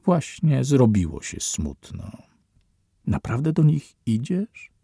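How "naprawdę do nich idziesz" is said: reproachful. A narrator's reading. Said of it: "zapytała z wyrzutem".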